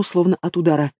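plain reading voice

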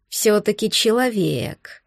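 gurgle it out from underwater; gurgling. Acted. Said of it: "пробулькал он".

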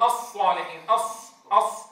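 الصالحين with lips rounded on the ص. Shown as a demonstration. Teacher shows a mistake in الصالحين, lips pursed. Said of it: "ضم الشفتين عند نطقها".

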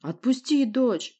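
roaring command to free his daughter; slow roared order. Acted. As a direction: spell out each word like a threat. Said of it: "взревел он".

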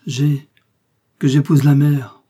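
despairing man sneering out his confession; sneering laugh. A narrator's reading. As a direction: spit it out with a bitter snigger. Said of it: "dit-il en ricanant".

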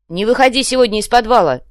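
loud, high shout after him; shouted warning. Acted. Siracusa shouting after the leaving savage, loud warning. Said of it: "крикнул ему вслед".

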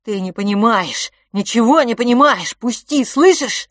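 building to a high loud cry; rising fury, slowing at the end; boy yelling at his twin to let go; desperate shouting. Acted.

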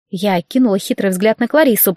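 ordinary delivery

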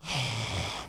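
soft drawn-out sigh; Tim Gunn sigh. Retold or imitated. Tim Gunn sigh when asked to do it again. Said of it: "That's a good Tim Gunn sigh".

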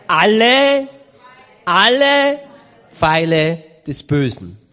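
loud, ringing "Alle, alle"; triumphant shout. Acted. Preacher shouts to the church that faith quenches all arrows, loud. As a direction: call it out like a victory cry.

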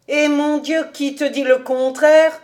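exasperated exclamation. Acted. David concedes interest to Cobus, exclaiming impatiently. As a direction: exclaim that nobody objects.

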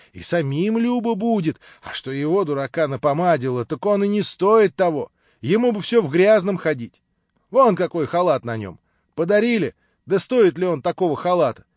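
fussy wife scolding her husband in front of the guest; fretting housewife. Acted. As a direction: grumble about the husband to the guest. Narrator voices fussy wife.

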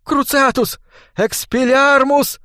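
high squeal, the second word slow; desperate high-pitched spell shrieks; shrieking. A narrator's reading. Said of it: "взвизгнул ученик мага".

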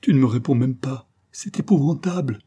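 cri plus fort qui monte très haut; cri désespéré. Acted. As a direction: crie ton désespoir à travers la porte. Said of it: "s'écria avec un accent vraiment désespéré". (Diana s'écrie, désespérée, devant le silence de Morat)

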